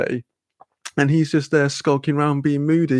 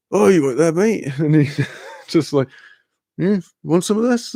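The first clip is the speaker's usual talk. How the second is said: higher-pitched laid-back mate; a higher put-on matey voice; imitating a mate; 4 semitones higher than usual. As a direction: pitch it up, casually offering a smoke. Mate casually offering a spliff.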